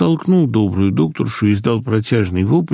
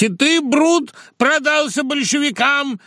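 much higher, shrill declamatory cry; shouting out; slower than usual. A narrator's reading. Madman wrapped in a blanket cries out as Caesar: high shout. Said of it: "начал выкрикивать".

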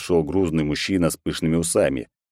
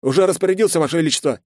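higher, louder eager subordinate voice; lightly voiced nervous general; the general bowing to the emperor, higher and a bit louder; general's voice; 11 semitones higher, 4 dB louder, faster than usual.

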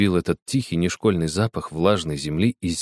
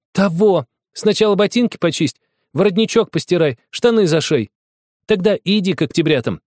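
scolding shout; 11 semitones higher, 4 dB louder than usual. Acted. Girl scolding boy angrily.

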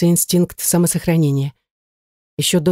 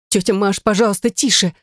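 hushed plea; 3 semitones higher than usual. Acted. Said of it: "взмолилась я вполголоса".

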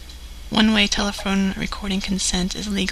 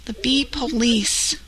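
over the phone; 2 semitones higher than usual. Real, not acted. Prank call heard over phone.

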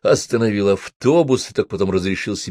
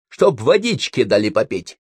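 snapping back; 2 semitones higher than usual. Acted. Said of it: "огрызнулся я".

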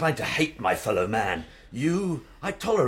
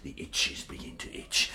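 whispering softer about flesh; hushed whisper; 4 semitones lower, 6 dB quieter than usual. Real, not acted. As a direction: confide it in a whisper. Intimate confession.

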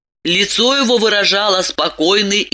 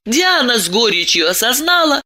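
plain reading voice

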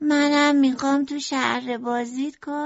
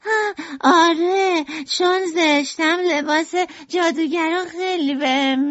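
thrilled; 10 semitones higher, slower than usual. A narrator's reading. Merlin delights at witch job, high and gleeful. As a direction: burst with glee. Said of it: "مرلین ذوق زده شد".

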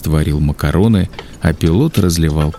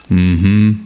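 mumbled through food; 3 semitones higher than usual. A narrator's reading. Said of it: "промычал эльф".

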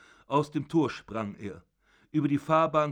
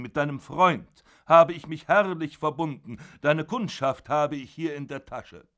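put-on loud, raised furious old father berating his son; zorniger alter Vater; 5 semitones higher, 7 dB louder than usual. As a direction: bellow down at your son from the bed. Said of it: "father rages at Georg". (wütender Vater, laut und erhoben)

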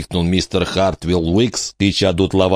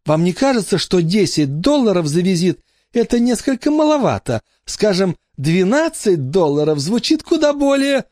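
Крамли with a clear hard К, said primly; Крамли, not Жрамли; correct name; 12 semitones higher than usual. A narrator's reading. Crumley haggles over the price.

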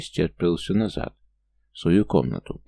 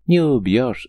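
giggling; 5 semitones higher, 5 dB louder, slower than usual. A narrator's reading. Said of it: "захихикал гном".

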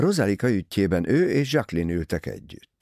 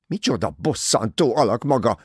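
raised, stamping outburst; angry exasperation; 5 semitones higher, 4 dB louder than usual. A narrator's reading. Rosalie stamping her foot at Poirot, angry. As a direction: snap in sheer annoyance. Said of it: "toppantott dühösen Rosalie".

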